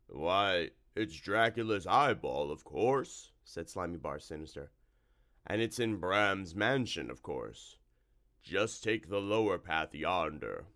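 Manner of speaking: a slow, oozing monster voice; a lightly voiced slime monster, unhurried; slow slimy creature. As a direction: drawl the answer like a swamp creature. Narrator voicing Slimy Bar Sinister.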